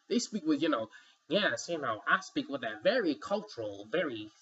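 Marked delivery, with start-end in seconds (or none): 1.3-4.3 lightly put-on cultured voice; hint of affected refinement; mock uppity. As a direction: imitate someone trying to sound uppity, drawing out the end. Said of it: "they try to sound like they're uppity".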